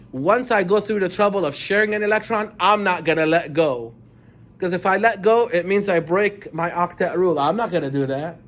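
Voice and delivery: loud defiant atom voice; loud insistent first person atom; stubborn atom. Acted. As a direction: refuse to let go, firmly. Teacher voices atom refusing.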